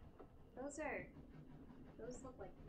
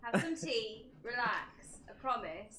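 mock comforting; 5 semitones lower than usual. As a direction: coo it like calming a child, half joking. Comforting the distressed English viewer.

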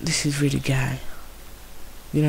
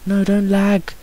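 high whiny begging, louder at the end; pleading; 6 semitones higher, 3 dB louder than usual. Real, not acted. Gamer begging the laggy game for sheep wool, high whine.

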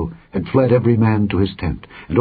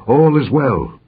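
higher-pitched hail to the king; calling out; 6 semitones higher, slower than usual. A narrator's reading. Runner Ahimaaz brings news to the king, calling out. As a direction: hail him from a short way off, pitched up. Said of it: "Ahimaaz called and said".

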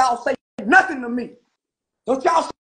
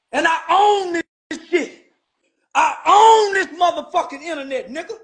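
laughing boast. Real, not acted.

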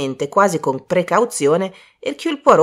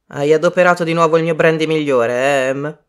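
good-naturedly teasing, in a full, lowish voice; 4 dB louder than usual. Acted. Colonel to his wife about the brandy, good-natured. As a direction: chide fondly, with no real reproach. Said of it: "disse bonariamente il colonnello".

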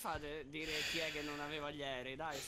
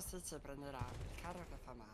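Stitch voice; 4 semitones lower, 6 dB quieter than usual. Pretend. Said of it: "Stitch ora è incazzato".

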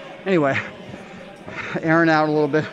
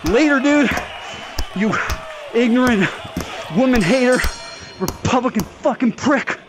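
higher gloating insults; gloating taunt; 3 semitones higher than usual. Real, not acted. Gamer gloating over the knocked-out opponent, higher taunts. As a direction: throw insults after the knockout.

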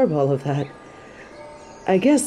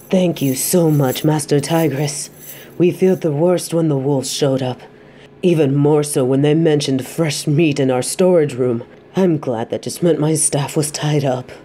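a relieved innkeeper thanking the master; grateful innkeeper. Acted. Grateful innkeeper voiced by narrator.

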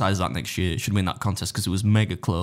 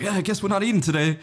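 much higher put-on voice; imitated resignation; 10 semitones higher than usual. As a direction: quote the friend in a high voice. Friend's reply, acted out.

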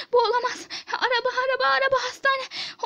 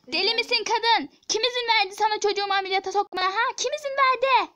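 indignant, quick-fire challenge; angry outburst; faster than usual. Acted. Mother confronting staff over the surgery, angry and accusing.

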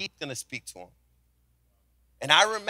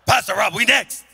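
loud, pitched-up mock Korean accent; put-on Korean accent, punchy and louder; imitated Korean accent; 3 semitones higher, 6 dB louder than usual. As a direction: repeat it urgently in Korean-accented broken English. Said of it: "I started talking Korean".

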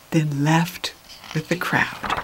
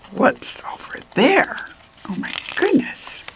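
mock worry; 4 semitones higher, 5 dB quieter than usual. Shown as a demonstration. Reader reacts with alarm.

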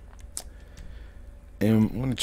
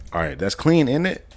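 higher, louder jokey British "isn't it" with a rising tag; mock British; 9 semitones higher, 5 dB louder than usual. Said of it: "You know how British people say".

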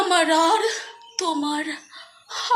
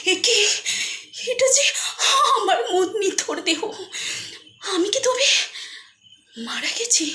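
horrified shock; 4 semitones higher than usual. Retold or imitated. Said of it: "শিউরে উঠি".

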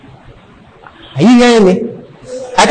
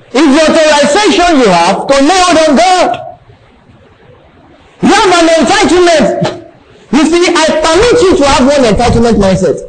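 raised-pitch sermon declaration; emphatic preaching; 8 semitones higher than usual. Real, not acted. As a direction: preach it higher, pressing the point.

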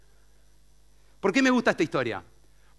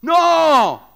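sudden high loud NO; shouted no; 10 semitones higher, 10 dB louder than usual. Acted. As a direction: bark it out, outraged. Crowd rejects the speaker.

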